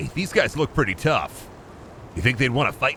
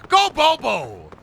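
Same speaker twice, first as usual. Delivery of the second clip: high, drawn-out rallying yell; playful yelling; 10 semitones higher, much slower than usual. Pretend. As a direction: yell it slowly as a cheer. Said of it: "I'm just yelling".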